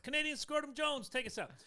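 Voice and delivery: loud announcer call; announcing loudly. Acted. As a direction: call it out like a host. Calling for intro.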